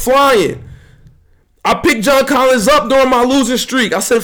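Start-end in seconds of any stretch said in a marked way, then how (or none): none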